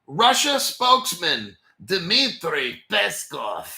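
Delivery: slow, deliberate put-on Russian accent. Host naming a Kremlin spokesman in a slow mock Russian accent. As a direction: put on a Russian accent, one heavy word at a time. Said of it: "that's my Russian accent".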